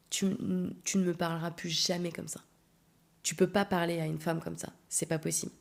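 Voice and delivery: quiet, controlled fury; telling off the man who yelled, quietly furious; cold anger. Retold or imitated. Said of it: "j'étais d'une colère".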